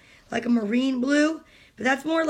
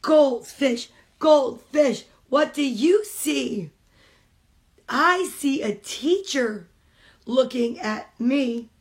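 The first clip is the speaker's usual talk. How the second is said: slow, rhythmic picture-book reading; reading aloud to children; slower than usual. Acted. Mom reading a picture book to kids on a stream, storytime reading. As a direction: read it like storytime for little ones.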